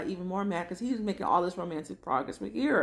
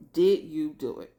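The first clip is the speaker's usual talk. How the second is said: blunt accusation; 6 dB louder than usual. Retold or imitated. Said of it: "He didn't hesitate".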